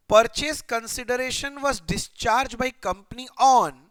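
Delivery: reads the textbook sentence very slowly; slow question reading. Shown as a demonstration. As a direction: read each word out for students to follow. Reads question text aloud. (बहुत धीरे प्रश्न पढ़ते हुए)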